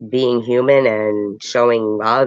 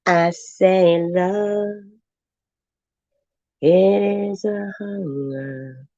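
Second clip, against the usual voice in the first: high, very slow, witchy singing; witch voice; 7 semitones higher, much slower than usual. Pretend. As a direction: croon it like a creaky old witch. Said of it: "I do sound like a witch".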